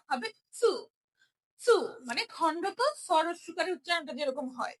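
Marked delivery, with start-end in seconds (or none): 0.6-0.7 চু said with a ch sound, not tu; chu not tu. Shown as a demonstration. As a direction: say চু starting with ch. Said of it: "বা তু হবে না". (তু নয়, চু)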